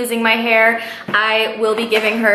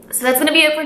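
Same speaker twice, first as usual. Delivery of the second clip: tearful, higher and rushed; teary-eyed; 6 semitones higher, much faster than usual. Real, not acted. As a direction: still choked up. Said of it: "I, like, need to get it together".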